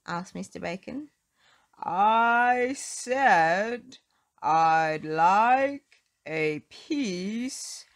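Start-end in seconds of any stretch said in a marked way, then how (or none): 1.8-7.8 loud, word-by-word roar; furious roar for bread. Acted. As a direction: roar each word separately. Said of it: "roared Mister Noisy".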